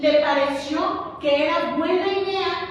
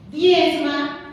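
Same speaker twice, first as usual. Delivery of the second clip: "Diezma" said again, louder and firmer; firm louder command "Diezma"; louder insistent repeat; 6 dB louder than usual. Shown as a demonstration.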